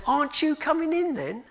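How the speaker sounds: high, loud, puzzled question. Acted. Tony asks why the candle isn't coming in, puzzled. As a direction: ask it puzzled, pitched right up.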